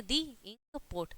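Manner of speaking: "दी" rhyming with "see", leading into ink; "दी" before a vowel. Shown as a demonstration. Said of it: "यहाँ पे दी बोलेंगे".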